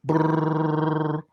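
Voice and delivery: rolled purring meow sound; cat impression. Shown as a demonstration. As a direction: purr like a cat. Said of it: "here's my best cat impression".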